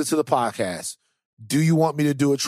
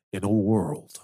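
movie trailer voice; 2 semitones lower than usual. Pretend. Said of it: "There it is, Trailer Voice Van".

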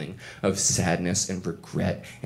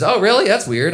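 high, louder mock surprise; knowing, sarcastic "really"; sarcastic girlfriend voice; 11 semitones higher, 6 dB louder than usual. Girlfriend catching boyfriend's lie, high and sarcastic.

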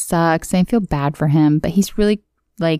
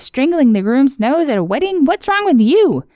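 high whiny Ice King; 7 semitones higher than usual. Retold or imitated.

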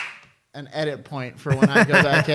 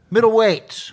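ring announcer; 7 semitones higher, 5 dB louder, slower than usual. Pretend. Announcing the next fight.

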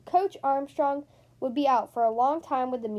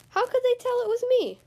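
dismayed whine; 10 semitones higher, 4 dB louder than usual. Acted. Principal caught in disguise, whining.

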